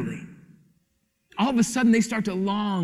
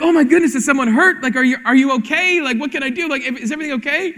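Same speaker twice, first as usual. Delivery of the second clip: worried dad; 4 semitones higher, faster than usual. Retold or imitated. Father checking on crying kids.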